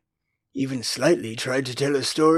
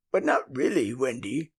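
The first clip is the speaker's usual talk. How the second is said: anxiously; 4 semitones lower, 4 dB quieter than usual. A narrator's reading. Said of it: "he asked anxiously".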